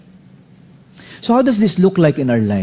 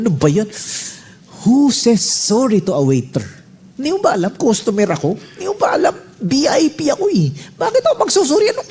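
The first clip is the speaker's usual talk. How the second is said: mock indignant customer, much higher and rising; arrogant VIP customer; 10 semitones higher, faster than usual. Pastor mocking his proud self to the wife, pompous indignation. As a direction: ham up the entitled big shot refusing to apologize.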